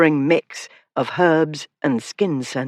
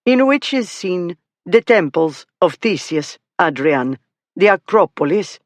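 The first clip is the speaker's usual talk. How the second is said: exaggerated Greek accent; 2 semitones higher than usual. Young lady reading about Athens for fun, in a mild mock Greek accent. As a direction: read the catalogue like a hammed-up Greek guide. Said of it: "In an exaggerated Greek accent".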